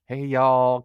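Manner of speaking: mild, easy Southern greeting; lightly Southern, kept soft; soft Southern accent. Retold or imitated. Podcast host mimicking an actress's inconsistent accent, soft Southern. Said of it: "kinda, kinda soft Southern accent".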